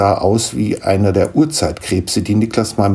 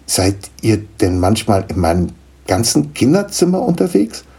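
astonished; 3 semitones higher than usual. Acted. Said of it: "fragte Niklas erstaunt".

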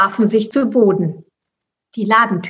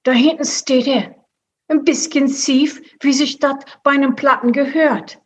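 higher put-on mouse character voice; lightly voiced streetwise mouse; Pomme de Terre, cocky mouse; 5 semitones higher than usual. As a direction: point it out with casual assurance.

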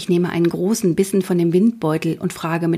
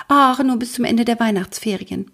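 higher, pleading tone; begging; 5 semitones higher than usual. Acted. Mathilda begs the detective for an internship, pleading. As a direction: coax him like a begging child. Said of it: "bettle ich".

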